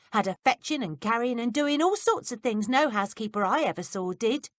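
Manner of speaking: put-on a touch brighter, grumbling boy; lightly voiced cheeky lad; lightly voiced servant boy. A narrator's reading. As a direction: complain like a put-upon houseboy. Peter voiced by reader.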